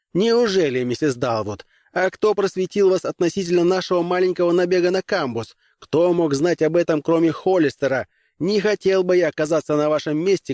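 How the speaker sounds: a hint of an indignant young officer; lightly voiced captain. Grimes defying the commissar, lightly indignant. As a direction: push back firmly but politely.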